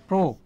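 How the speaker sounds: প্রো said as "pro" with a clear o vowel; প্রো with the o-kar vowel; o-kar sound. Shown as a demonstration. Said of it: "ওকারের মতো হয়েছে".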